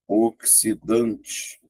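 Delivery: "oxidante" drawn out slowly in separate syllables. Shown as a demonstration. Teacher counting sounds in a word, "oxidante" slow and segmented. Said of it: "Fazendo a contagem".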